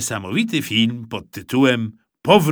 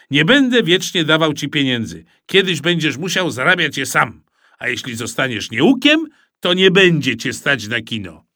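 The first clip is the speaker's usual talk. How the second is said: stern father; 3 semitones higher, 5 dB louder than usual. Acted. Father lecturing son.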